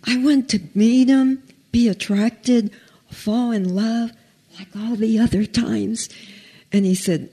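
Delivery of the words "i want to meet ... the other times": higher-pitched, mildly anxious plea; retold fear. Woman tells God her fear of falling in love, scared. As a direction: relive a scared prayer, pitched up. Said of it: "I was so scared".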